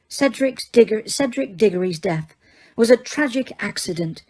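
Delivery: icy, clipped schoolteacher reply; cold. A narrator's reading. Teacher coldly dismissing a student's claim, icy. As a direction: say it coldly, refusing to budge. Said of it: "she said coldly".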